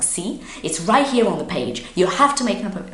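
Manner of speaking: lightly imitated irritated clerk, quickening; angry clerk. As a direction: insist with a touch of mock anger. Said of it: "she was angry".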